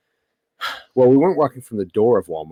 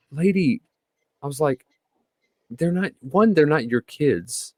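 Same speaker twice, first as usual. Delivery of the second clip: exasperated retort; 4 semitones higher than usual. Retold or imitated. Retold argument with Karen.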